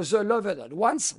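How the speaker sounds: The Loved Ones spelled out slowly, word by word; carefully articulated English film title The Loved Ones. Shown as a demonstration. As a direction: say The Loved Ones slow and deliberate so it sticks. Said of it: "retenez bien ce titre".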